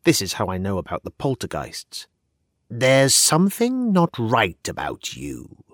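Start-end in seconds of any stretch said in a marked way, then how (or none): 2.7-5.6 slow, lightly voiced ghost; a hint of an eerie ghost, slow. Poltergeist tells the narrator she seems wrong, slow eerie voice. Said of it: "one of them said".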